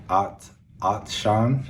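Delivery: slow American "Atshan" with a flat A; American English accent. Shown as a demonstration. Learner contrasts accents for thirsty. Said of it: "English accent".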